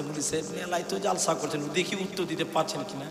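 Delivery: put-on a boy murmuring the question into the preacher's ear; hushed and secretive, like sharing a secret; softly, secretively. Boy whispering his trick question into the preacher's ear, quietly. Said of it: "আস্তে আস্তে বলছে".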